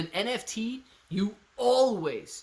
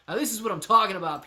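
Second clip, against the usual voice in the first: hype; 4 semitones higher, 5 dB louder, faster than usual. Real, not acted. Hyped crypto stream shoutout.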